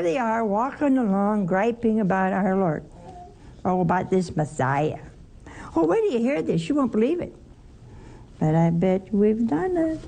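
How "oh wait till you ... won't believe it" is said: higher, eager gossip voice; gossiping grumblers. Pretend. Preacher voicing disciples gossiping about the Messiah. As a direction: dish the news like a gossip.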